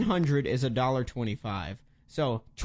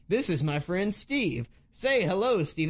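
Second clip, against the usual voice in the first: phony voice; slower than usual. Retold or imitated. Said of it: "fake, phony voice the whole time".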